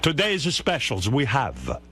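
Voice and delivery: put-on slow, lightly Italian-accented specials; host imitates the waiter reciting specials, in a mild Italian accent. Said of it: "getting that accent right".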